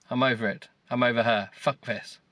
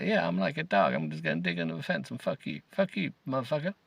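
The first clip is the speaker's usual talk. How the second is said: mock dog voice. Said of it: "That's what they're like".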